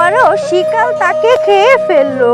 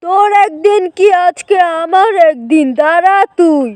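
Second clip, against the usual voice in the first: mildly angry uncle. Acted. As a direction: play an uncle confronting the wicked jackal.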